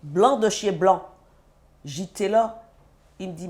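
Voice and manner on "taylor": put-on rising, louder call of the child's name; calling his name. Mother calling to her son as his face changes, alarmed call.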